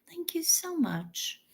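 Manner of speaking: breathy whispered thank-you. Real, not acted. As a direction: whisper your gratitude to the donor. Thanking a donor.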